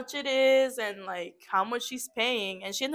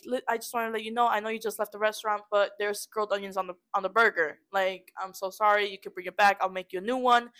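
polite phone voice; 4 semitones lower than usual. Retold or imitated. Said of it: "gave her a courtesy call".

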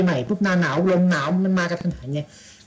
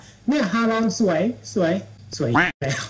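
mock tourist gushing; 3 semitones higher than usual. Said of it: "ที่ชอบพูดกันว่า".

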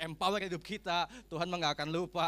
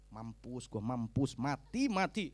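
acted doomed lament; 8 semitones lower, slower than usual. Preacher mimics a sick unbeliever lamenting, hammed-up doom. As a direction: moan as if you are done for. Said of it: "kalau sakit ngomongnya apa?".

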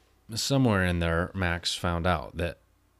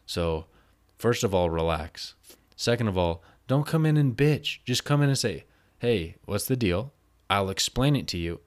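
raised, deliberate telling-off, slowing on key lines; firm lecture; 3 dB louder than usual. Retold or imitated. Lecturing Max on how to ask, firm and louder. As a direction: lay down the rules, louder.

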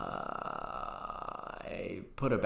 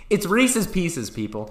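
It's Reese's Pieces said slowly and higher, Pieces pronounced PEE-sez; insistent correction; 6 semitones higher, 4 dB louder than usual. Shown as a demonstration. Host corrects his cohost's pronunciation, slow and insistent. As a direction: spell out Reese's Pieces for everyone, slow and emphatic. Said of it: "How do you say the word pieces".

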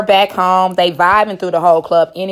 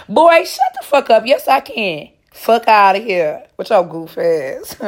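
sassy retort; 4 semitones higher, 3 dB louder, slower than usual. Retold or imitated. Retorting in character.

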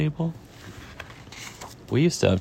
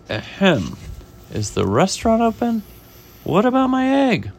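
high, insistent storybook complaint; rising to a high, loud demand; impatient inspector; 11 semitones higher, 4 dB louder than usual. Acted. Inspector waiting for his egg, acted impatience.

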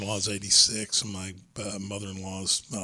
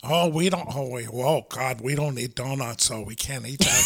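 Minnesota mom voice. Retold or imitated. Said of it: "sound like Adam Sandler doing a Boston impression".

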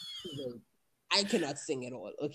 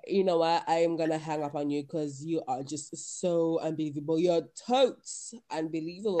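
put-on huffy valley-girl telling-off; mock airhead ending a phone call; dumb blonde. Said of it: "dumb blondes".

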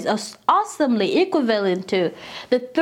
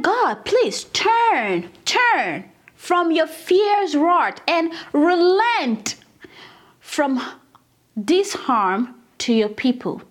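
pleading prayer; 4 semitones higher, much slower than usual. Acted. Reading Moses' prayer to God.

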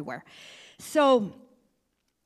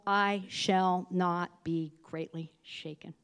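slow, reverent psalm reading; scripture reading; slower than usual. Acted. Pastor's wife reading Psalm sixty-two to church, reverent. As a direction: read it like a prayer.

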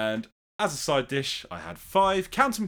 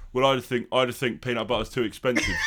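Harry Kane impression; faster than usual. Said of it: "you have to change it to do an impression".

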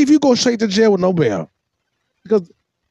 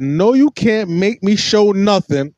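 mocking stubborn woman; slower than usual. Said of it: "She said".

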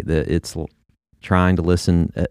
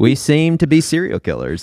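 lightly raised quoting voice; quoting the pastor; 6 semitones higher than usual. Retold or imitated. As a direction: echo the pastor's line, a bit higher. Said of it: "That's what was said".

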